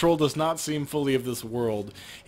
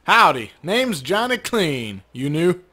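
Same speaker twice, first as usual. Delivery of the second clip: lightly voiced drawling janitor, slow; a hint of a folksy janitor greeting a stranger; 3 semitones higher, 5 dB louder, slower than usual.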